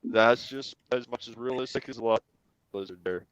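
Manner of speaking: faint voice cutting out; words fading almost to nothing; barely audible. Real, not acted. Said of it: "I can barely hear you".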